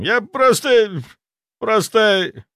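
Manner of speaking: high, loud, slow stammer breaking off; faltering stammer. A narrator's reading. Zaitsev faltering under interrogation. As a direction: search for words and fail.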